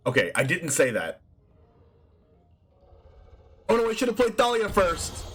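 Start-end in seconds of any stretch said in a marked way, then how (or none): 3.7-5.3 regret. Real, not acted. First, lower take of regret.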